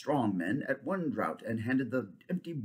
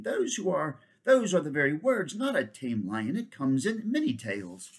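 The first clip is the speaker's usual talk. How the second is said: higher, eager royal voice; eager king; 4 semitones higher, 3 dB louder than usual. Acted. King eagerly agreeing with Jewel. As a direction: agree with rising excitement.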